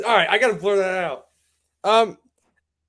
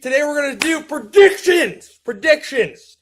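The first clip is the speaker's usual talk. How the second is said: excited; 4 semitones higher, 3 dB louder than usual. Real, not acted. Hyped show intro.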